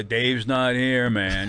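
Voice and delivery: slow, stretched-out stoner drawl; Cheech and Chong bit. Retold or imitated. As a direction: kid reciting the Cheech bit, slowed right down. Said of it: "and I'd do a".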